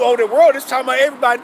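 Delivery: mocking the other teachers. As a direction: rattle it off like the misreading you scorn. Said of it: "and then telling you".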